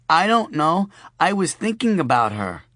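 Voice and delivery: put-on wistful small girl; little girl. A narrator's reading. Sophie tells her father about mommy, in a high child voice.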